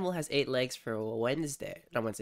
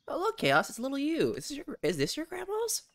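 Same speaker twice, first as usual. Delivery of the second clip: cutesy voice; 12 semitones higher than usual. Acted. Cooing at a character on screen.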